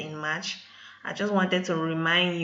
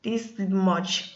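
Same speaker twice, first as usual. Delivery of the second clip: shrill shocked "What?", much higher and louder; 6 semitones higher, 10 dB louder, much slower than usual. Retold or imitated. Vlogger to viewers, reliving the shock at her hair. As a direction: gasp in disbelief at the pile of hair. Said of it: "I'm like".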